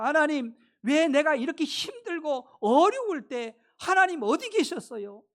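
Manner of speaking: "왜"냐고 따지듯 힘주어 하소연; 억울함을 토로하는 연기; 불평하는 하소연. Acted. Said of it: "하나님 앞에 불평합니다". (하나님께 따져 묻듯 불평조로)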